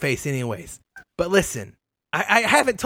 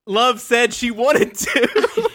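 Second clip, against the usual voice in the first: laughing; 4 semitones higher, much slower than usual. Real, not acted. Laughing while explaining the choice.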